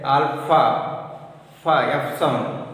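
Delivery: alpha then fa, stressing the F sound; alpha, fa, lean hard on the F; F sound demo. Shown as a demonstration. Teacher showing class the F sound in alpha. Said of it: "have the F sound".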